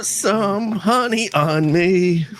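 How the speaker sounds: very high, slow squeak; squeaky high voice. Pretend. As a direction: stretch it out in a tiny high voice. Player requests honey pour.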